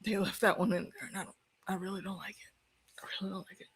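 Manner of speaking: quiet tearful voice. Real, not acted. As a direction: murmur it through tears. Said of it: "still in fucking tears".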